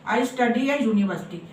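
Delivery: "a university" read slow and even; slow careful example. Shown as a demonstration. Teacher reading the full example sentence slowly. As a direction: dictate the sentence word by word. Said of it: "madam ने यहाँ पे ए लगाया".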